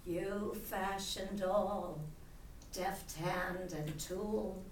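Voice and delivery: measured poetry reading, short phrases set apart by pauses; poem recitation. Acted. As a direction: read your poem aloud, addressing Papa line by line. Recites her own poem about Papa.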